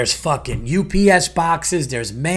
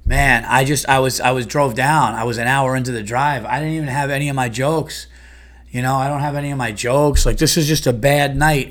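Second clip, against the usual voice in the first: mock unprepared comic; 3 semitones lower than usual. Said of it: "me showing up to a comedy club going".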